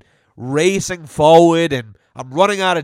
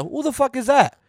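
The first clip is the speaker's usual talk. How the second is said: imitating the kid; 8 semitones higher than usual. Retelling the kid's exact words, cheeky imitation. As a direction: repeat the kid's line just like he said it. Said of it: "Just like that".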